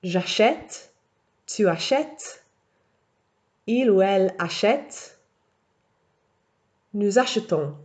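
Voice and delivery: achète with an open è sound, achetons and achetez with a light e; model conjugation. Shown as a demonstration. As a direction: read each form cleanly.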